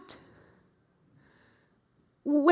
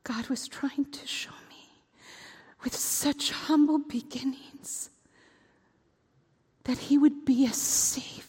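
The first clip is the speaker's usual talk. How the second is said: whisper; 6 semitones lower, 8 dB quieter than usual. Acted. Quiet realization.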